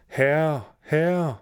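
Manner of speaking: high, drawn-out call to the master; harp crying out. A narrator's reading. Harp alerting the giant to the thief, calling out. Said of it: "så råbte harpen".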